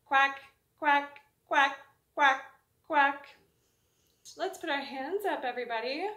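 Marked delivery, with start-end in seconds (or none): 0.1-3.4 loud duck quacks. Shown as a demonstration. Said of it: "Let's quack five times".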